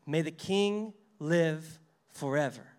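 reverent. Retold or imitated. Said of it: "notice his word choice".

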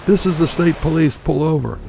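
high-pitched trooper's yell; megaphone yell. A narrator's reading. State trooper ordering the boat over, high megaphone yell. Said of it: "He yelled through a megaphone".

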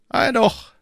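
high, cool and unhurried cardinal; phlegmatic cardinal. A narrator's reading. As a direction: say it with utter composure. Cardinal voiced.

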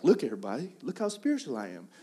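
show-off in a put-on Southern accent; lightly hammed-up Southern boast; goofy Southern accent. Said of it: "like, Southern accents".

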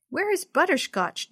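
put-on girl shouting in alarm; shouted. A narrator's reading. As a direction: call out for the lost cat. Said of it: "Jenny shouted".

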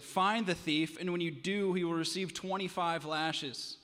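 loud, commanding royal fury, slowing at the end; the king bellows his order in anger. Acted. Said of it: "In anger, the king raised his voice".

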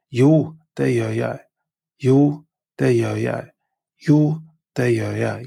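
"Jo, det gjør jeg" stressed on "Jo"; Norwegian answer. Shown as a demonstration. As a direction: model reply clearly.

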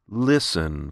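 slow on listen. Shown as a demonstration. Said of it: "the single word listen had its own rhythm that was much slower".

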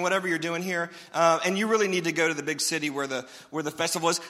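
hint at leaving with fake sweetness; fake polite brothers. Preacher voicing Jesus' brothers, sarcastic fake politeness.

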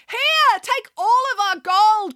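high, slowed, pleading offer; a terrified mayor bribing the pig; desperate cry. A narrator's reading. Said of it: "cried the mayor".

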